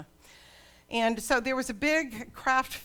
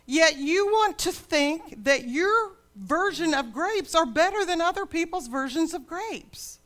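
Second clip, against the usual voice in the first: loud, higher, booming divine rebuke; voice of God; 7 semitones higher, 6 dB louder than usual. Acted. God rebuking people who think their grapes are better, booming loud. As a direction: thunder it down from heaven at proud people. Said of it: "God says".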